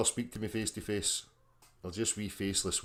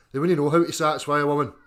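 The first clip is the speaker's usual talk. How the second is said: mocking loud rant; 4 semitones higher, 11 dB louder, faster than usual. Real, not acted.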